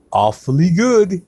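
mock connoisseur praise; savouring. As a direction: relish the taste slowly. Savouring the beer.

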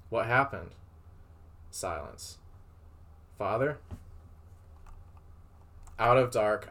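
measured read-aloud storytelling voice; story narration. A narrator's reading. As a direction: read it out like a tale. Reads fan fiction aloud.

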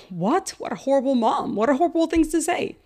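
rising, quick indignant disbelief; appalled at the mean mom; mock-scandalized gasp of words; shocked outrage. Adults react to mean baby-talk.

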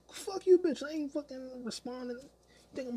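loud, high-pitched outburst; angry retort. Real, not acted. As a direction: burst out cursing, loud and high.

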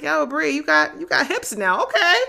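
high, loud hype at herself; hyped self-praise. Retold or imitated. To herself in the mirror, loud high excited self-hype. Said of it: "I looked at the mirror the other day and I was like".

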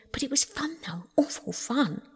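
hushed, rebellious aside; mutinous muttering. A narrator's reading. Toad says to himself while being lectured, mutinous muttering. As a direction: grumble under your breath, barely voiced. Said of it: "he kept saying to himself mutinously".

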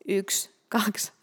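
hushed counting; soft secret whisper of numbers. Real, not acted.

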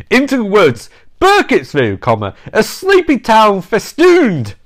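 flat dictation, reading punctuation aloud; dry reading voice. Acted. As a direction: read it out, saying each comma. Reads book again.

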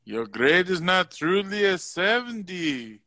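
a lightly voiced calm teacher; a hint of a patient teacher explaining; Mister Geronimo impression. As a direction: play the reasonable teacher, only lightly. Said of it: "it sounded something like".

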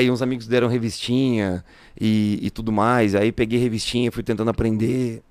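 strained, faltering voice; voice giving out. Real, not acted. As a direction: voice cracking and failing. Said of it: "A voz tá falhando aqui".

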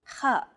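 "Kha" with a throat-clearing rasp at the start; throat-clearing sound. Shown as a demonstration. Teacher demonstrating an Arabic letter to learners, "Kha" rasped like throat-clearing. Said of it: "as though you're clearing your throat".

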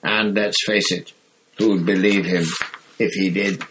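irritable Fudge. Acted. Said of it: "said an irritable Fudge".

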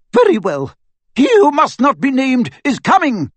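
high, loud stern announcement; grave warning to fellow teachers; stern witch. A narrator's reading. McGonagall voice, raised.

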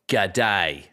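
American botched Australian "g'day"; American doing Australian accent. Acted. Mimicking Americans greeting an Australian, mock Australian accent. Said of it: "the American impersonating an Australian".

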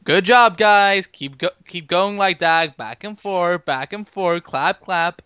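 lightly mocking praise, loud on the opening words; a hint of sarcastic applause; Harrison Wells sarcastic. Podcaster imitating Wells applauding the show's back and forth, lightly sarcastic. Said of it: "with his sarcastic clap".

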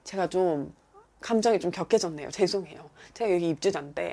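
sheepish, softened retold apology; mildly embarrassed apology; backing down. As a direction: climb down meekly with little pauses. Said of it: "제가 꼬리를 확 내리고".

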